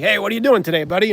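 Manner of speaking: lightly voiced friendly log; a hint of a chummy piece of wood calling out; wood pile talking. Piece of wood greeting him from the wood pile, lightly voiced. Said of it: "he'd be like".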